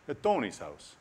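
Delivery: lightly put-on Italian accent; joking touch of an Italian accent. Preacher voicing a possible answer, light Italian accent. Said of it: "I don't know why an Italian accent".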